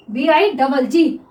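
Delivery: letters spelled out slowly, one by one; slow spelling. Shown as a demonstration. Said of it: "teacher spelling the word out". (धीरे-धीरे spelling बोलना)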